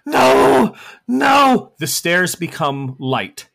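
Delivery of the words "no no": very high, loud little nos; gargoyle protest. Acted. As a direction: squeal the refusals. Rex protesting.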